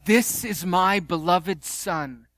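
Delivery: very slow solemn proclamation; a hint of God speaking from the cloud. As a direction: draw each word out like a decree. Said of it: "What does God say?".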